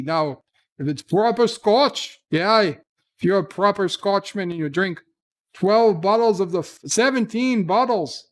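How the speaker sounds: hammed-up Scottish accent, playing an old Scotsman. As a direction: roll out a mock Scottish brogue like a proud laddie. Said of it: "not the accents".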